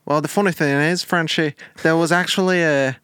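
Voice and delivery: lightly put-on accented lad; Gary, chatty storyteller. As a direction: spin the yarn as a wobbly Bristol-Irish caller. Plays Gary in mock phone interview.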